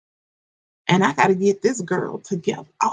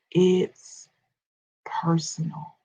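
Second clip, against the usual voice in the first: much softer, whispered "personal"; 3 semitones lower, 6 dB quieter, much slower than usual. Shown as a demonstration. Coach whispers the refrain to her ladies, whispered. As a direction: hush it to a breathy whisper.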